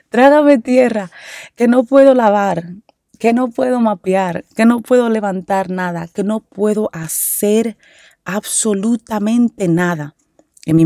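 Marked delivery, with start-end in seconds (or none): 0.1-4.4 mock despair. Mother recalling her recovery rules, in mock despair. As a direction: let the earth swallow you, theatrically. Repeats the phrase, laughing and higher.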